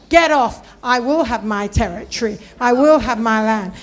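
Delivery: forceful, loud opening command; defiant proclamation. Shown as a demonstration. Preacher teaching congregation to claim their territory, defiant. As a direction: declare it as a battle cry.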